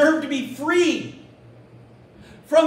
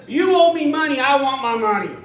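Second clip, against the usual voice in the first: loud, forceful demand for money; angry demand; 6 dB louder than usual. Acted. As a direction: bark it like a creditor grabbing a throat. Servant demands his money back.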